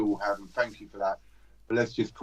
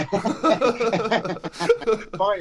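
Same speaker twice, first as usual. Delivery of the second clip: laughing; 8 semitones higher than usual. Real, not acted. Signing off amid laughter.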